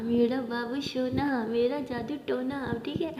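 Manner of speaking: slow, drawn-out lovey-dovey teasing; sweet mock baby-talk; cooing pet names. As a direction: coo the pet names playfully, stretching each one.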